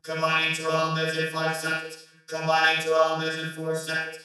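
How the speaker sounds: slow, monotone robot countdown; computerized voice. A narrator's reading. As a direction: count down like a machine. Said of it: "a computerized voice started".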